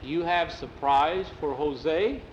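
put-on slow, accented, wondering question. Jose asks Jackie about the promised surprise, wondering. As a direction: draw it out, rising in mild disbelief.

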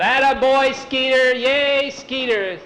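high crowd cheer, lightly hammed-up; imitated yelling. Boys in the audience to Skeeter, imitated high cheering. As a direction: cheer like boys egging on a pal. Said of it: "the boys in the audience yelled".

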